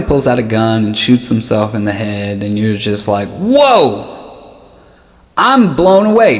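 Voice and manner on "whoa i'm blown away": mock amazement. Dark joke bystander reacting, hammed-up mock surprise. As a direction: play it like a bystander faking shock.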